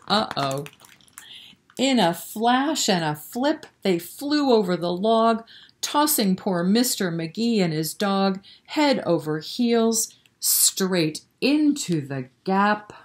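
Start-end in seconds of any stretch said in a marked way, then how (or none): 1.8-12.9 sing-song rhyming storybook read; lilting bedtime-story narration; reading to children. A narrator's reading. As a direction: read the rhyme aloud to little kids. Reads a rhyming picture book.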